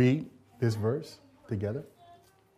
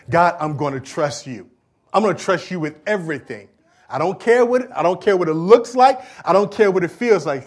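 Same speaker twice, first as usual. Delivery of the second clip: fervent vow; 3 semitones higher, 5 dB louder than usual. Acted. Preacher voicing believer's vow.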